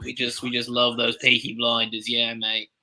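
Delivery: shaky attempt at a British accent. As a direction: play a British alter ego, badly. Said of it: "This is just my British alter ego".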